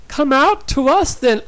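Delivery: high, loud, eerie taunt; vampire voice. A narrator's reading. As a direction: call out as a luring night creature. Vampire voice luring her out.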